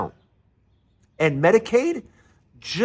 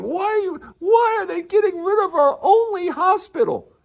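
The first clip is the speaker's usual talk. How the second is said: high-pitched, hammed-up wailing; mock crying; 14 semitones higher than usual. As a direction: whine it tearfully, mocking upset voters. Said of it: "when you're crying and going".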